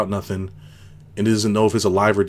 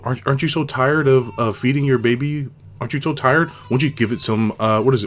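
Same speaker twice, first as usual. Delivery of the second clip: higher, coaxing mock-sympathy voice; mock sales pitch; 5 semitones higher, 3 dB louder than usual. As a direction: tease like a pushy ad selling formula. Mocking voice of formula marketers.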